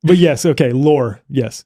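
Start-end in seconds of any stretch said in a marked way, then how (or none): 0.7-1.2 "lore" with a full American R. Shown as a demonstration. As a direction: stress "lore" and sound the R clearly. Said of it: "If you had an American accent".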